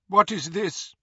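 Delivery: cold woman's voice. A narrator's reading. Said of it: "said a woman's cold voice".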